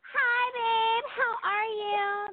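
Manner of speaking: slow, sultry phone sex operator. Shown as a demonstration. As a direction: draw each word out, slow and seductive. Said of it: "give us a sample. Act, act like I'm a caller".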